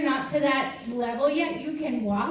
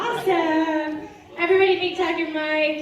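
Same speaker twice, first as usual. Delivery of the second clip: laughing; 2 semitones higher, 5 dB louder than usual. Real, not acted. Introducing volunteer with a laugh.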